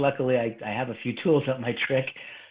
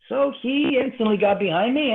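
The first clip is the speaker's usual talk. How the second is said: ordinary talk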